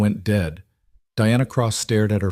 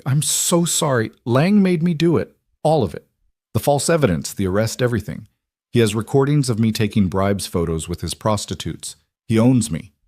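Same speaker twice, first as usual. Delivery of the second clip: shaky voice; 2 semitones higher than usual. Acted. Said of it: "Detective Cross's shaky voice".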